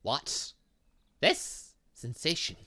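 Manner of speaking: ordinary delivery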